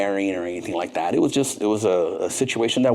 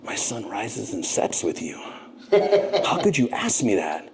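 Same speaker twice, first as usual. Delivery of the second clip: a light, slow movie-star murmur; Val Kilmer impression; slower than usual. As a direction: lay it on like a brooding movie star. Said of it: "muster up my best Val Kilmer voice".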